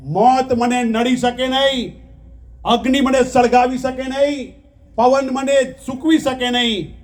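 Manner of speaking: preaching declamation. Acted. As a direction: proclaim each line like a sermon chant. Declaims the soul's voice. (જોશભેર પ્રવચનની ઘોષણા)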